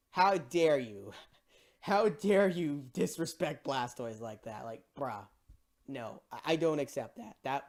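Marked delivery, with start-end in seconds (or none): 0.1-4.6 how dare you, said slow like a grand insult; slow indignant outrage. Retold or imitated. Fan reacting to Blastoise fainting, slow mock outrage. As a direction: drag out each word, mock-offended. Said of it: "I was like".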